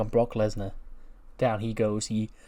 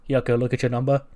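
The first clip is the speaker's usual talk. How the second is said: calling out; 8 dB louder, faster than usual. Retold or imitated. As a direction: stop him with a shout. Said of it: "And he goes".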